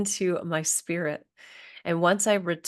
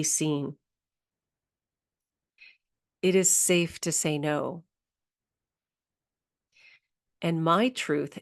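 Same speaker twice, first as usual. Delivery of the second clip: guided meditation. Acted. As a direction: lead them gently into breathing, unhurried. Leads a somatic grounding exercise.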